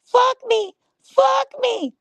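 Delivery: high shrieked fuck me, loud and mocking; hammed-up high-pitched mock scream; mock turkey screaming. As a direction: scream it like a flailing turkey in a swing.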